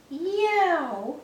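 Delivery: high, loud demo yell. Shown as a demonstration. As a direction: show the kids how to shout it. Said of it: "I'm gonna get you guys to yell it".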